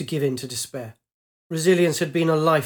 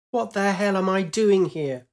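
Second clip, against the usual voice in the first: higher exasperated outcry; disbelief; 5 semitones higher than usual. Acted. Pilot falling from her wrecked craft, exasperated. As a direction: cry out at the madness.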